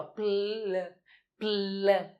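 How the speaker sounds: short isolated pl sounds, lips popping into the L; sounding out pl. Shown as a demonstration. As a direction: sound the cluster pl alone. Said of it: "o P L, ó".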